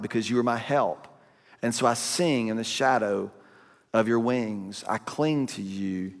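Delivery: scripture reading. Acted. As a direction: read the psalm like a prayer. Reads Psalm sixty-three aloud.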